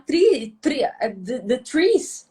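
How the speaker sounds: tree and the trees, halting; struggling English demo. Shown as a demonstration. Host showing how she struggles with English, halting tree. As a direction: stumble over tree and the trees. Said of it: "tenho dificuldade pra falar three".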